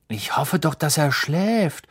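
whispered, slow; quiet. Acted. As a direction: hush it so he won't wake. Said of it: "sagte Ron leise".

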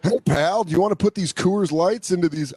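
imitating dad. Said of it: "he's like".

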